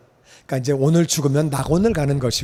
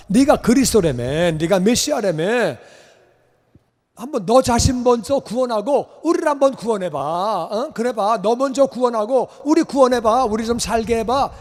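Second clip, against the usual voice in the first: mocking taunt; 5 semitones higher than usual. Robber mocking Jesus.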